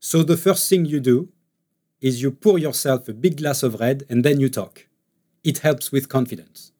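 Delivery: English with a light French accent, quick; a playful stereotyped French accent. Shown as a demonstration. Actor demoing his French accent for the interviewer. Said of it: "I'll just tell you in French".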